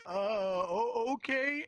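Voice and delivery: high-pitched, awkward hesitant voice; socially awkward. Retold or imitated. Telling welcoming strangers this is unfamiliar, socially awkward. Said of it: "I felt socially awkward".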